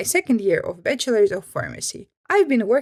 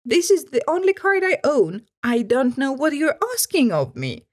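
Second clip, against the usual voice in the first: customer retort; 3 semitones higher than usual. Retold or imitated. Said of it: "she said back".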